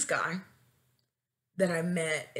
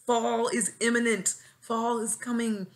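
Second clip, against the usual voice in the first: higher-pitched whining list; whiny pleading; 5 semitones higher than usual. Pretend. Wanting autumn dates with crush, whiny pleading. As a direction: whine through the wish list.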